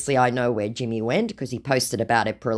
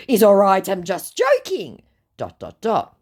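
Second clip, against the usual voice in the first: mock scammer voice; 6 semitones higher, 4 dB louder than usual. Woman reading the scammer's message aloud, in a high mock voice. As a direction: ham up the creepy flattery.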